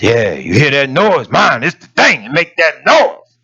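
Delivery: lightly mimicked bragging, rising in pitch; boastful young man. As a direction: brag about the noise, stretching the last words. Young man boasts of his truck.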